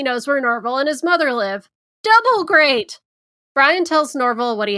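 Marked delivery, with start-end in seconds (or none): 2.0-3.0 higher, louder mock cheer; sarcastic double great. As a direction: overdo the fake delight. Sarcastic reaction, worse news.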